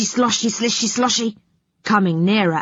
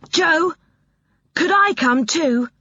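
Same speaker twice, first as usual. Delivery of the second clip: begging; 9 semitones higher than usual. Acted. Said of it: "he begged".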